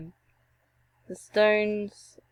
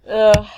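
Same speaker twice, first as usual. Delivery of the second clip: exasperated groan; 11 dB louder than usual. Real, not acted. Groans after dying in game.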